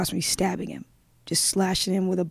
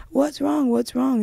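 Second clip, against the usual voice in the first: lightly voiced child, higher pitched; retold little brother; 6 semitones higher, slower than usual. Little brother asking older sibling what happened, lightly imitated higher voice. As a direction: imitate an anxious question, pitched up. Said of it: "My little brother was asking me".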